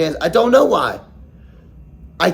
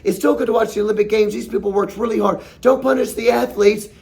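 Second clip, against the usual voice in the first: higher, quick, mock-soothing voice; mocking imitation; 4 semitones higher, faster than usual. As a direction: parody a preachy scold calming everyone down. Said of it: "They're like".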